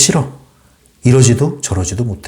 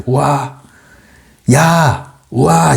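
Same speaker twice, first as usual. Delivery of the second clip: higher, held "wah" and "yah" calls; demonstration yells; 4 semitones higher, much slower than usual. Shown as a demonstration. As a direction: let out open, drawn-out exclamations. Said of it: "이렇게 하셔도 돼요".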